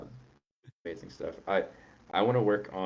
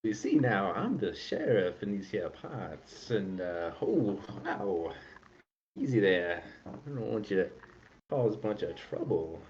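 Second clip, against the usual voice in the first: sheriff voice. Pretend. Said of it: "our lovely Yuan-Ti sheriff".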